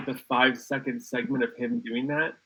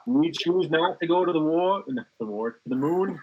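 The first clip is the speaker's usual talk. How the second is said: Mayor Quimby impression; 3 semitones higher than usual. Shown as a demonstration. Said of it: "Do Mayor Quimby".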